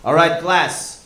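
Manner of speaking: put-on Latin accent, teacher addressing a class; Carlos. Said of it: "taught by a swarthy Latin man named Carlos".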